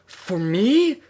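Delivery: high, loud delighted pony; delighted cry. Acted. Twilight thrilled to get the bouquet, high delighted cry. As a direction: squeal it with delight. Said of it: "she cried in delight".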